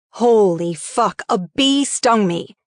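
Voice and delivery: slow, strangely dropped put-on voice. Bee-stung narrator blurting out, in a slow, strange dropped voice. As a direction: drag it out in an odd, dragged-down voice. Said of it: "in a voice at least two octaves lower than normal".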